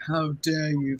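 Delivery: possessed character voice, pitched low. Showing the possessed scene again when asked: Nirvana's low possessed voice. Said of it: "in Nirvana's voice as well".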